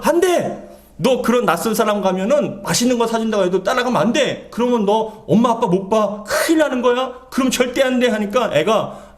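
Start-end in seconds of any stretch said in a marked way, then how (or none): 0.0-8.1 mother's warning. Retold or imitated. Mother warns child in retold story. (아이를 타이르는 엄마 흉내)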